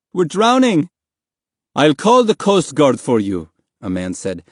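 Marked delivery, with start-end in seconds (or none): 0.1-0.9 high, desperate cry; begging. A narrator's reading. Drowning boy to the people aboard, high frantic plea. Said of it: "Mahmud begged". 1.8-3.4 raised, louder voice; calling down. A narrator's reading. Man in the dinghy to swimmers, calling out.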